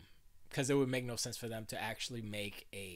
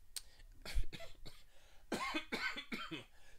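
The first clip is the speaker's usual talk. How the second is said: real cough; 6 dB quieter than usual. Real, not acted. Coughing mid read.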